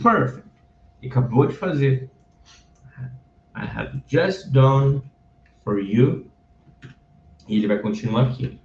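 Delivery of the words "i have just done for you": slow reading. Shown as a demonstration. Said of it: "reading demo".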